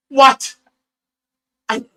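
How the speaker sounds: high, loud burst of outrage; indignant disbelief. Retold or imitated. Hearing he is blamed for the dead fish, loud disbelief. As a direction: blurt it out as a retold outraged reaction. Indignant reaction to false accusation.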